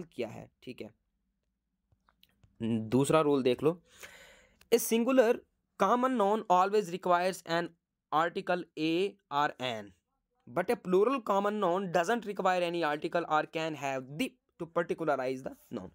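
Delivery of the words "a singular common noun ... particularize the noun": reading the rule out word by word, very slowly; slow dictation. Shown as a demonstration. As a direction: dictate it slowly so students can write.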